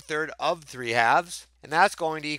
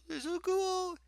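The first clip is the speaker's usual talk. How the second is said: squeaky delight; 10 dB quieter than usual. Real, not acted. Delighted about kitten paws.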